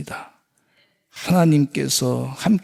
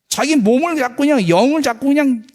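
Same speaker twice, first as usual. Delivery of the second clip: fervent preaching; 9 semitones higher, 3 dB louder than usual. Acted. Climactic sermon exhortation.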